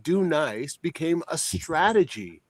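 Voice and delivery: slow, amused, laughing through the words; laughing disbelief. Real, not acted. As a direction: let a laugh slip in as you ask it. Mocking the idea of strategy.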